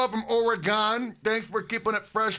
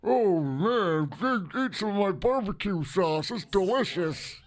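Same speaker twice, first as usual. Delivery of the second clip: lightly voiced folksy announcer drawl; a hint of a down-home commentator selling sauce; Jim Ross; 3 semitones higher, slower than usual. Mocking the wrestling announcer he's compared to, folksy voice. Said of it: "I'm Jim Ross".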